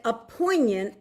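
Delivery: slightly slow Philadelphia accent. Real, not acted. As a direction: read it with a touch of Philly. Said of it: "read that with the Philadelphia accent".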